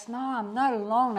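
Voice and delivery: high, loud shout back; yelling back. Retold or imitated. Lost woman shouting back at the bus. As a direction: throw it back at them loudly. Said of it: "she yelled back".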